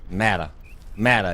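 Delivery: Mata with the short "a" of mat; echoed pronunciation. Shown as a demonstration. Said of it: "the characters say pragmata".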